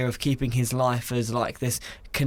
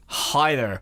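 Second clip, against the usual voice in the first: put-on American accent. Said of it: "what about American?".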